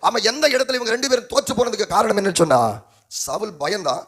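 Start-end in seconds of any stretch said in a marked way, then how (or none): 0.1-2.6 raised, higher pulpit delivery; declaiming to a church; energetic preaching. Acted. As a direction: preach it out to the congregation. Preacher building his point.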